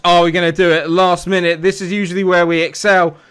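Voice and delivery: ordinary delivery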